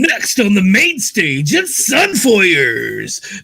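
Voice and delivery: drawn-out hype announcer call; strip club announcer. Pretend. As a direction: announce it like a club MC, "it's" stretched long. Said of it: "my strip club announcer voice".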